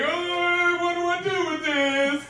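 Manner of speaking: high-pitched, flustered and helpless. Retold or imitated. Comic holding a cat over the toilet, high and flustered. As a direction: pitch way up like a baffled new dad.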